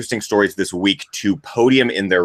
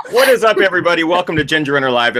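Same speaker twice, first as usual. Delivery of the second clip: loud harsh voice; 6 semitones higher, 4 dB louder, faster than usual. Real, not acted. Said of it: "am I still yelling?".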